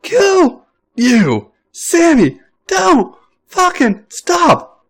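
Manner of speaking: very high, slow, crying-laughing shriek; shrieking through giggles. A narrator's reading. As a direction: wail between laughter and panic. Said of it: "Finn shrieks".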